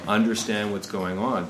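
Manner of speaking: ordinary talk, nothing marked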